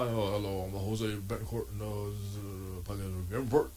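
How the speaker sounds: mock a smug host opening his show; imitating Jose Betancourt. Mocking a podcast host's intro, lightly voiced, low and soft. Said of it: "He's like".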